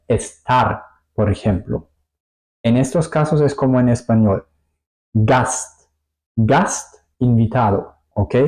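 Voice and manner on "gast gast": "Gast" with plain S then crisp T; separate S and T. Shown as a demonstration. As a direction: say "Gast" without any SH, S and T apart. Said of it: "Yo separo la S y la T". ("Gast" con S y T separadas)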